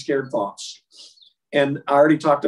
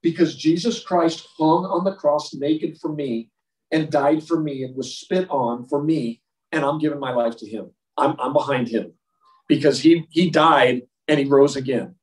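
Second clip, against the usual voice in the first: bold sincere witness. Shown as a demonstration. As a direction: testify with conviction. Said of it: "you can say".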